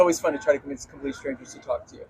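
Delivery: far from mic. Real, not acted. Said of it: "if I sound a little far away".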